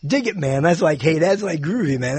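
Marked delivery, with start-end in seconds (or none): 0.1-0.6 beatnik. Retold or imitated. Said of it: "it was beatnik time". 1.0-2.2 groovy hippie. Retold or imitated. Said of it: "I wouldn't even say groovy".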